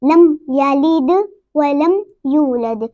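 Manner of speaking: slow लम यलिद, each final D shaken; qalqala recitation. Shown as a demonstration. Teacher reads it with the echo, slow recitation. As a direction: bounce the D in यलिद and यूलद. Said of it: "हिला के पढ़ेंगे".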